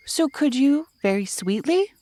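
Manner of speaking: lightly voiced sweet little boy asking; Christopher Robin voice. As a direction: coax sweetly like a small boy.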